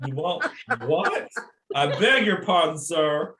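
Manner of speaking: playfully taken aback, through laughter; hammed-up disbelief with a laugh; mock incredulous. Acting out a stunned shop assistant.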